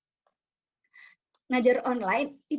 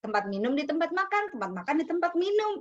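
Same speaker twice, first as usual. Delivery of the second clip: playful recital; 6 semitones higher than usual. Retold or imitated. Mimics toddlers mixing up places.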